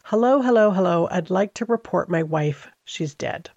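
imitating a stagey caller; acty voice. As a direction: overplay a fake distress call. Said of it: "in a very acty kind of voice".

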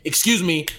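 politely stern, cut the fat; stern excuse me. Shown as a demonstration. Coaching Jason how to complain about the empty cup. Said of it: "they hear the sternness in your voice".

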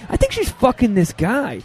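high, agitated retold complaint; getting angry. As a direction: act out rising jealous irritation. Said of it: "starting to get, like, angry".

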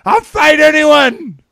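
high, drawn-out mock war cry; roided-up Cyborg. Co-host mocking a fighter itching to fight, hammed-up yell. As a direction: bellow it like a crazed fighter. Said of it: "maybe Cyborg hears this conversation".

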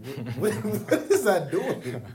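high, slow laughing disbelief. Real, not acted. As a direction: laugh through the question in disbelief.

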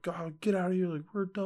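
high-pitched mock breakup outburst; imitating fed-up wife. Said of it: "she was like".

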